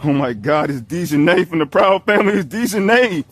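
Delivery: loud starstruck gasp; hammed-up fan shouting at a lookalike; mock fan excitement. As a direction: gush like you spotted a celebrity. Fan spots a cartoon lookalike.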